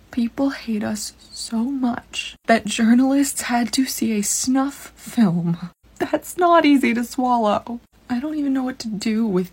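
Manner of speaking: fighting to keep from crying; holding back tears. Real, not acted. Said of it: "I'm trying not to cry right now".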